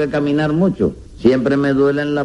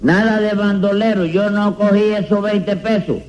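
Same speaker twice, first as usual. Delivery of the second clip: higher, emphatic protest; indignant denial; 4 semitones higher than usual. Acted. Accused man to the court, denying theft, indignant. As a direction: protest the accusation, pitch raised.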